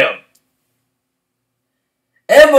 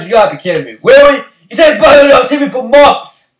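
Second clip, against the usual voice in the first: incredulous complaint; 5 semitones higher, 6 dB louder, faster than usual. Retold or imitated. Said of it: "I was like".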